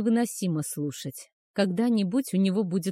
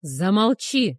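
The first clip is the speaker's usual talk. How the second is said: louder sharp bark; barked command; 5 dB louder, slower than usual. Acted. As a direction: snap the order to silence her. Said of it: "рявкнул он".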